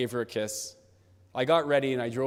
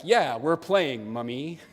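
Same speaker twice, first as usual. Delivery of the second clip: slow, stretched-out emphatic reply; 2 semitones higher, much slower than usual. Retold or imitated. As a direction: draw it out emphatically, echoing a child. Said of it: "I respond with an emphatic".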